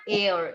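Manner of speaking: एयर begun on the vowel, H dropped; silent H. Shown as a demonstration. Teacher giving the pronunciation of heir to the class, silent H. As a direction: pronounce एयर without any H sound. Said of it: "pronunciation होगा एयर".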